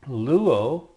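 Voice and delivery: teacher modelling "luo" for students; Greek verb form demo. Shown as a demonstration. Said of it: "and also".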